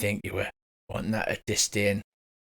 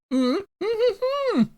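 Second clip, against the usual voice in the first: high muffled humming through a gag; muffled gagged hums; 5 dB louder than usual. Acted. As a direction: hum desperately through a bound mouth. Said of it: "the small kid with the wrapped up fairy dragon goes".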